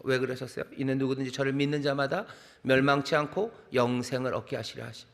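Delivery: normal talking voice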